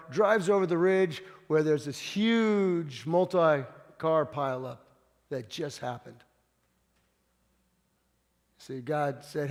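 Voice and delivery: ordinary delivery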